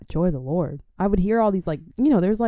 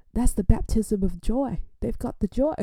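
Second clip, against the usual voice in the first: David Hall; 4 semitones higher than usual. Retold or imitated. Imitating minister on stage hailing laughing youth, lifted voice. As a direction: call it from the stage, stretched and lifted. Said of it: "I'm not doing his accent".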